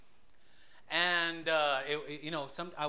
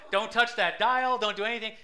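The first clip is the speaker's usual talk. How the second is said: warning friends; 5 semitones higher, 6 dB louder than usual. Retold or imitated. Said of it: "then I would tell my friends".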